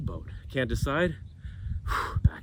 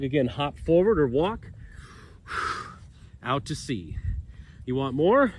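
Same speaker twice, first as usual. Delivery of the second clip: out of breath. Real, not acted. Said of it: "Ooh, I'm winded".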